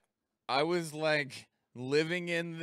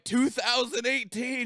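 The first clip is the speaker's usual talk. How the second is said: eager answer; 10 semitones higher, 5 dB louder than usual. Retold or imitated. Answers old lady in dream.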